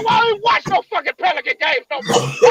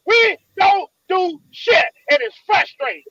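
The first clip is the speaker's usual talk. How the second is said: angry; slower than usual. Real, not acted. Angry rant about team.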